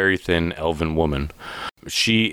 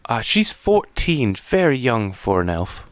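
high, halting voice of a tearful mother; acted distraught elven woman, faltering; 4 semitones higher, slower than usual. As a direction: stammer into it, upset and higher-pitched. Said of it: "she seems very distraught".

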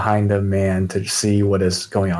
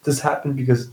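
higher-pitched, mildly tearful apology; lightly acted grief, voice raised; acted sobbing; 4 semitones higher than usual. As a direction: plead guiltily as if through tears, understated.

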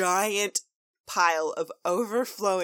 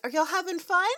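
cheery Applejack voice; 11 semitones higher, 4 dB louder than usual. Acted. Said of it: "is like".

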